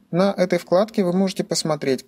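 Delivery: ordinary talk, nothing marked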